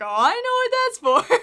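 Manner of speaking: loud, high retold reaction; gleeful knowing exclamation. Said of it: "and I'm like".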